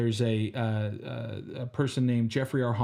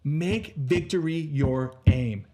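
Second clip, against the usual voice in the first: rousing speech; 2 semitones higher than usual. Acted. Motivational pep talk.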